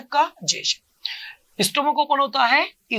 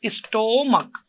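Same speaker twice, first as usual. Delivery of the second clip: slow drill; much slower than usual. Shown as a demonstration. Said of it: "जल्दी बताओ।".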